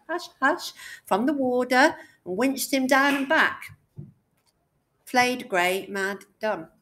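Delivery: expressive poetry recital with swooping pitch; poem reading. Acted. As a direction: perform the poem aloud, line by line. Reads the poem aloud.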